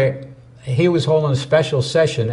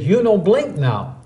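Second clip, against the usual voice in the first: put-on Korean accent; 6 semitones higher, slower than usual. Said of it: "He said".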